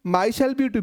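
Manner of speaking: "I myself beat you" very slow, each word separate; slow emphatic example. Shown as a demonstration. Teacher to students, emphatic example, very slow. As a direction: lay out every word for the class. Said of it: "लेकिन मैंने बोला".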